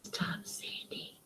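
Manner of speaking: slow, breathy whisper, barely voiced; soft slow whispered scolding; whisper to the dog. Real, not acted. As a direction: hush the dog without waking the mic. Scolding dog while streaming.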